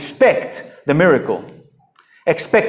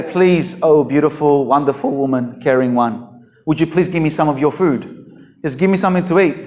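mock overpolite plea; 3 semitones lower than usual. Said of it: "He didn't say".

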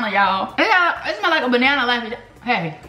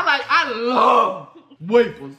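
slow, laughing put-on voice; 3 semitones lower, slower than usual. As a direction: stretch it out, giggling through a silly voice. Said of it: "you gotta talk like this".

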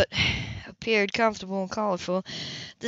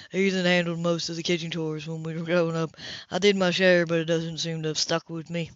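Cam, lower, sheepish; offhand confession in a lower voice; lightly voiced Cam; 4 semitones lower than usual. Cam admits he never learned kitchen chores, low.

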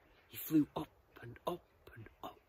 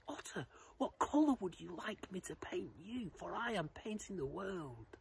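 lightly voiced butterfly, higher pitch; a touch of bright-eyed eagerness, pitched up; eager little butterfly; 5 semitones higher than usual. Butterfly asks otter what colour, lightly voiced and higher.

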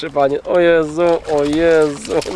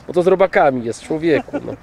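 normal talking voice

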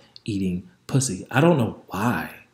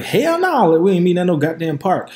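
mock outburst; 7 semitones higher, 4 dB louder than usual. What rational self would say.

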